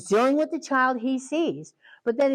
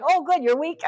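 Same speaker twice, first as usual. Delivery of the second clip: put-on gleeful kids; 6 semitones higher, 3 dB louder than usual. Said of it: "our kids are like".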